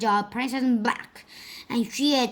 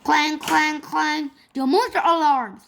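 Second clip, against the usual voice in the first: alarm bell call; 6 semitones higher, 5 dB louder than usual. A narrator's reading. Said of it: "said Duff".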